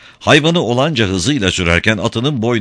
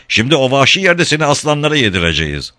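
higher-pitched gloating threat; spiteful shout; 7 semitones higher than usual. A narrator's reading. Sailor threatening Katinka with a gloating, moderate shout. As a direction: threaten with hateful glee. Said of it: "diye bağırdı".

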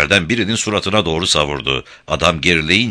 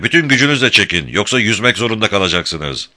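urgent shout; 4 semitones higher than usual. Acted. Urging rowers under fire.

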